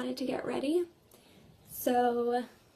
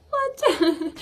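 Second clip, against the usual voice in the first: higher, louder mock-shocked question; retold disbelief; 4 semitones higher, 6 dB louder than usual. Replying to the coordinator's warning, in mock disbelief. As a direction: act out being taken aback.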